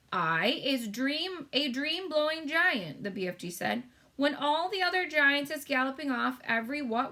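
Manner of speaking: kindly giant proud of his lovely dreams; BFG giant voice. A narrator's reading. BFG explains dream-blowing.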